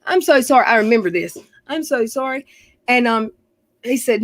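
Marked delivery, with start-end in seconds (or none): 0.0-0.7 high imitated plea of a crying girl; retold tearful apology. Crying girl apologizing over the hit dog, imitated high, tearful voice. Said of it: "this girl standing on the porch crying". 1.7-2.4 high, lightly imitated crying girl; retold tearful apology. Girl on the porch still apologizing, imitated high, tearful voice. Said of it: "this girl standing on the porch crying".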